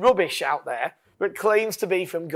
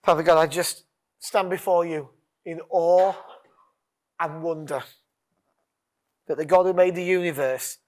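lightly held prayer voice. Acted. Leads closing prayer.

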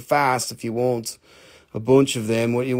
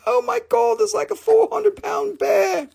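retold panic. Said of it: "I was like".

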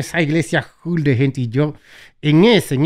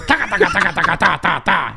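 laughing rattle of fake tongues; mock speaking in tongues. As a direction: rattle off nonsense syllables, amused. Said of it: "eso cuando hablan en lengua". (parodia risueña de hablar en lenguas)

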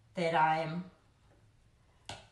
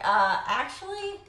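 teasing correction. Retold or imitated. Retold correcting son's mistaken claim.

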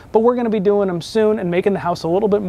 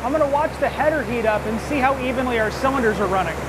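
raised, higher voice over engine noise; shouting over engine; 5 semitones higher, 4 dB quieter than usual. Real, not acted. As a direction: speak up over a running engine. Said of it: "I hope you can hear me over the engine".

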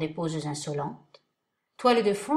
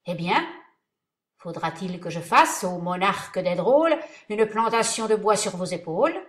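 louder, menacing; more threatening; 5 dB louder than usual. Acted. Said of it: "La voix plus menaçante".

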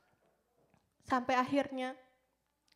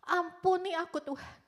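raised, pleading cry, re-enacted; tearful plea; 6 semitones higher, 3 dB louder than usual. Crying girl asking God's forgiveness, tearful pleading. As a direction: beg for mercy, falling away at the end. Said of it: "nangis sejadi-jadinya".

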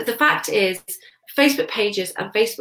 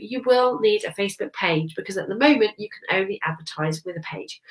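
stuffy nose from a head cold; blocked-nose nasal voice. Real, not acted. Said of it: "apologies for my kind of a nasal sounding voice".

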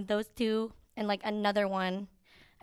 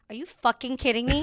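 mock outrage; 6 dB louder than usual. Retold disbelief at easy test.

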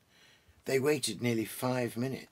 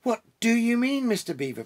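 panting; 11 semitones higher, 6 dB louder than usual. Acted. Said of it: "panted Peter".

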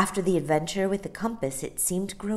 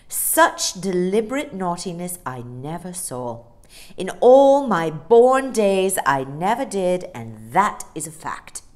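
emphatic, indignant telling-off; stern nanny scolding; 8 dB louder than usual. A narrator's reading. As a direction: bursts of louder stress, then firm orders. Nanny scolds boy, orders bed.

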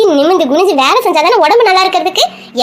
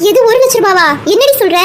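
higher, alarmed disbelief; shocked; 5 semitones higher than usual. Acted. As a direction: gasp it out in shock. Mother shocked by phone news.

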